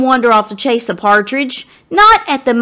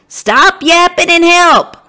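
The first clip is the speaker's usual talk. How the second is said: sputtering; 8 semitones higher, 5 dB louder than usual. A narrator's reading. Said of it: "Abe sputters back".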